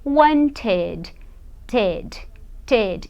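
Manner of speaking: slow "wanted" with a full "ted"; ED as extra syllable. Shown as a demonstration. Teacher models the past of want, "wanted" with clear second syllable. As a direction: sound out "wanted", then isolate "ted". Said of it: "no passado eu vou dizer wanted".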